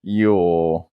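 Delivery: put-on frail, creaky old person voice; very old faint voice. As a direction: croak it out like someone very old. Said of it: "Say it like an old person".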